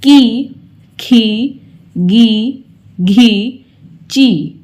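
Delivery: short, light ई on की खी गी; short i drill. Shown as a demonstration. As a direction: keep की short and unstressed. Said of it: "ई की ध्वनि सुनाई देने लगती है". (छोटी ई वाली हल्की ध्वनि)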